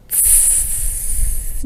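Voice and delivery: tss with a clear S at the end; T exploding into hiss; tss sound. Shown as a demonstration. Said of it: "Do you hear the S?".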